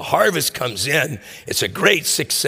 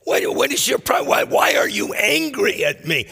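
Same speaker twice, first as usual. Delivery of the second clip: baffled landowner; 6 semitones higher than usual. Retold or imitated. And he's like.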